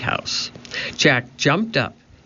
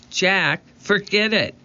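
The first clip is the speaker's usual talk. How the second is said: urgent protest; 6 semitones higher than usual. A narrator's reading. Annie urging Jack to leave book.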